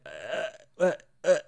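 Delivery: awkward, effortful punchline voice; strained effort. Acted. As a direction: act as if straining to push something out. Punchline, golfer straining behind a tree.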